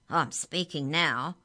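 loud, slow and emphatic; loud protest from a little bird; indignant cry. A narrator's reading. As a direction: cry it out, stretching the words. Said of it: "cried Bruce".

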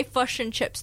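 "fish and chips" with short, centred Kiwi vowels; Kiwi-style vowels. Retold or imitated. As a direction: say "fish and chips" as "fush and chups". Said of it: "Australians think we say".

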